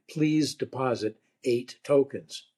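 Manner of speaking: slow, lightly put-on operator voice; measured recorded-operator delivery, lightly imitated; phone operator voice. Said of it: "heard a voice say".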